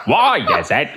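cartoon alien villain voice; gleeful villain shouting about suffering; Krang. Shown as a demonstration. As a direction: sneer it out as a cartoon brain villain. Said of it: "doing a Krang impression".

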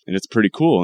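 ordinary delivery

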